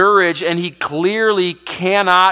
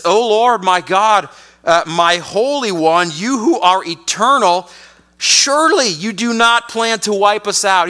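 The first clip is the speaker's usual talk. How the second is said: a pleading cry to God, pitched higher; pleading prophet; 4 semitones higher than usual. Retold or imitated. Prophet pleading with God, voice raised higher. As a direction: beg God not to destroy them. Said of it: "He says".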